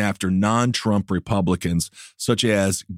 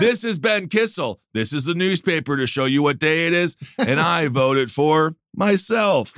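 hostage video; 5 semitones higher than usual. Pretend. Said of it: "make a video like you're imprisoned in Iran".

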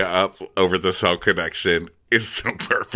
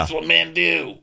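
mock proclamation; 10 semitones higher than usual. Mock sweeping claim about men.

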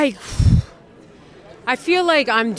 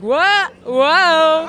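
higher-pitched imitation of dodging a punch; mock startled yelp; 7 semitones higher, 4 dB louder than usual. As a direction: act out a fake flinch. Acting out brother's fake punches.

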